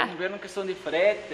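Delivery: talking with a mouth full; words round a bite of donut; chewing while talking. Real, not acted. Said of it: "falando de boca cheia".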